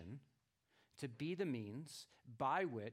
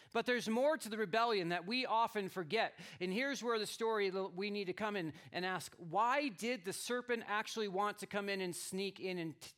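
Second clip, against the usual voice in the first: preaching; 7 semitones higher, 8 dB louder than usual. Acted. Preaches the question.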